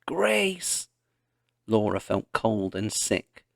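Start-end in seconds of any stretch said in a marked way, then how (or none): 0.1-0.9 high, far-off call of the name; a cry half drowned by wind; shrill call. A narrator's reading. Ma's call muffled by the slough grass. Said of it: "shrill call".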